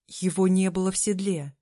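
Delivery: usual speaking voice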